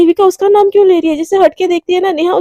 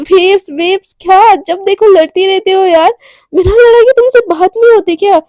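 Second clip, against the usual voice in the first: exasperated retort; 4 semitones higher, 4 dB louder than usual. Acted. Radhika snaps back at Devika.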